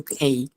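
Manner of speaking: খেই opened with a puff, like kh; aspirated K. Shown as a demonstration. Teacher modelling letter K, aspirated K. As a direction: breathe out on the k of খেই. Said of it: "খয়ের মতো শোনাবে একটু".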